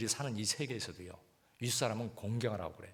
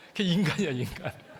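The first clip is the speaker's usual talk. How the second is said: emphatic exclaim; 5 semitones higher, 7 dB louder than usual. Real, not acted. Exclaims after laughing.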